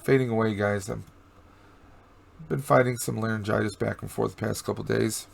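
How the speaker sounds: hoarse voice. Real, not acted. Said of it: "my voice is, uh, fading away".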